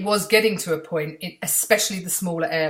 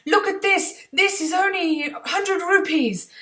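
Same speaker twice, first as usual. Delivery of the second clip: high, loud Indian seller call; Indian market seller; 11 semitones higher, 5 dB louder than usual. Retold or imitated. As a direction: hawk it like a Mumbai street seller. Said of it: "all the sellers were trying to".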